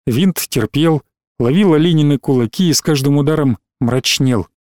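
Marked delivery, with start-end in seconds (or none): none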